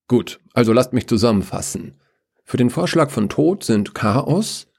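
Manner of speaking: lightly voiced chairperson, rising list tune; tally the votes formally, item by item; officious Order. Order summing up the council vote, officious.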